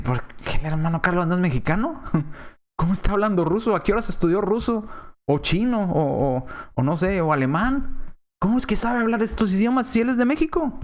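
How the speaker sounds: imitated baffled congregation, rising questions; mock astonishment. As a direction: question it in lightly acted disbelief. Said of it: "por eso estaban sorprendidos".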